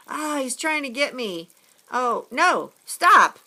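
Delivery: rising to a high, loud squeal on stop; panicked squeal. Acted. Boy squealing as the lobster waves its claws.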